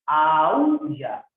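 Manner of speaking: Aúlla with the ú stretched and loud; sounded-out hiatus. Shown as a demonstration. Teacher sounding out vowels for pupils, stressed hiatus in Aúlla. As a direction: lean hard on the ú in Aúlla.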